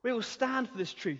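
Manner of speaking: a hint of defiant martyrs; bold disciples' vow. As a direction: declare it like fearless disciples. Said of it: "And they will go".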